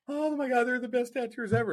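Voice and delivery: high, gushing mock praise; gushing fan. Mocking a fan gushing over tattooers, high and gushing. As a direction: squeal it like an awestruck fan. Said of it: "I was like".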